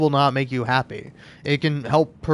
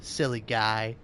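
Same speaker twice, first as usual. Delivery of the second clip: quiet, cooing words to the dog; soft pet talk; 4 semitones lower, 9 dB quieter than usual. Real, not acted. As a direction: murmur sweetly to a pet. Talking softly to a pet.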